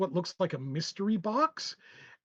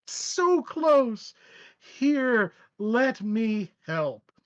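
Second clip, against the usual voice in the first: Joker mock cheer; 4 semitones higher, 4 dB louder, much slower than usual.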